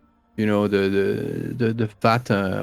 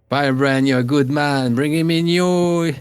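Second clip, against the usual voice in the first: rope him into the flock warmly; high, hearty innkeeper; barmaid voice; 5 semitones higher than usual. Acted. Barmaid chatting to patrons.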